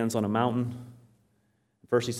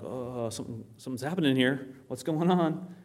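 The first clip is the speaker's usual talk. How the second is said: bewildered disciples; 3 semitones higher than usual. Acted. Preacher voices disciples watching Jesus glow, bewildered and rising. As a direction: voice puzzled witnesses, climbing in pitch. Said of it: "Peter, James, and John are like".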